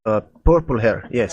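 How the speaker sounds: lightly voiced Russian cultist; Russian accent. Cultist confirming he saw the young woman, Russian accent. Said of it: "a Russian, little bit of a Russian accent".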